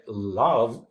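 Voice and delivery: "love" drawn out as an upbeat; stress going up. Shown as a demonstration. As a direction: lift "love" as the strong syllable of the foot. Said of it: "it goes up".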